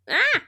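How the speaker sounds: short high "ah"; quick high yelp, put on; demonstrated yell. Shown as a demonstration. Streamer shows what she does at the door, short high yell.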